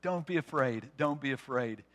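low, hushed, repeated reassurance; soft whisper-like reassurance. Retold or imitated. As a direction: hush it down, as God to his people. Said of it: "he whispers to his people".

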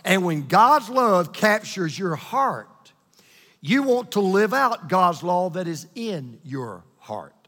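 stretched, deliberate delivery; really slow. Shown as a demonstration. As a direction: take it slowly so every word sinks in. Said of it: "I wanna say it really slow".

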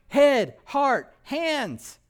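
high, loud preacher's cry; preaching at full force. Real, not acted. Preacher driving home repentance to congregation, loud and high. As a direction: proclaim it to the whole room.

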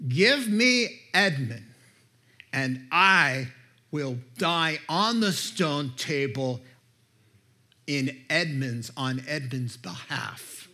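commanding. Acted. Aslan offering his own life.

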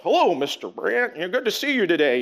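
stiff, formal mock greeting; like a soldier saluting his superior. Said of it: "Mike would salute him almost like".

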